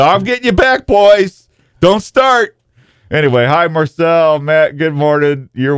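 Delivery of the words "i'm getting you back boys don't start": playful taunting shout. Pretend. Host gets friends back for ripping on him, mock-threatening high shout. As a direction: call out a gleeful warning, pitched up.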